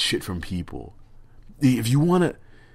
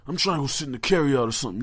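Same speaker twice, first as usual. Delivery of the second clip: fast, higher, louder explaining; imitating the homeless man; 5 semitones higher, 4 dB louder, faster than usual. Mimicking the homeless man about the carryout, quick and higher. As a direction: rattle it off like a man set on hot food. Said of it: "he goes".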